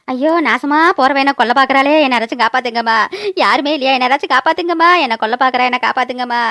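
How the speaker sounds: low-pitched, melodramatic plea for help; crying out in fear. Acted. Aunt thinks she is being killed, wailing plea. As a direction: wail as if being murdered. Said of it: "யாரோ கொல்ல பாக்குறாங்கன்னு கத்துறா".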